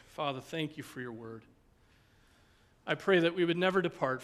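sincere closing prayer to the Father. Real, not acted.

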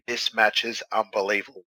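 hoarse, croaky throat; talking through a croaky throat. Real, not acted. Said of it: "I've got a croaky voice".

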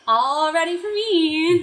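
eager exclamation. Pretend. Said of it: "I would be like".

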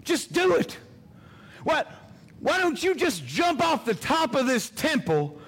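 the tempter coaxing, pushing up to a shout; enemy's voice. Acted. Preacher voicing Satan tempting Jesus, coaxing then shouting. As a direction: lure him in, then press hard. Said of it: "I know what his voice sounds like".

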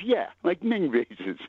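slowly repeated, drawn out; slow deadpan. Retold or imitated. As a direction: stretch it out, dead serious. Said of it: "And he goes".

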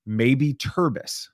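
measured, self-assured answer, imitated; calm confidence. Kid naming the porg for the director, calm and confident. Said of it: "as calm and as confident as possible".

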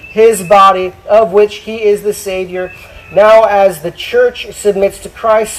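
projected, declamatory Bible reading; Scripture reading. Acted. Preacher reads Ephesians to the church, declamatory Scripture reading. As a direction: read it out firmly to the congregation.

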